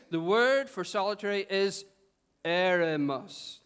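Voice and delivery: slow, put-on English scholar's accent; slightly English accent. Shown as a demonstration. Preacher coaching the congregation to sound intelligent, slightly English accent. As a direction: draw out "eremos" in a mock-English accent. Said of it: "slow it down and maybe put on a slightly English accent".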